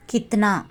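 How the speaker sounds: கித்னா as "kit-naa", two syllables; Hindi pronunciation. Shown as a demonstration. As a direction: model கித்னா clearly for learners, kit-naa. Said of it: "ஹிந்தியில எப்படி pronounce பண்ணணும்". (கித்னா, இந்தி உச்சரிப்பில் "கித்-னா")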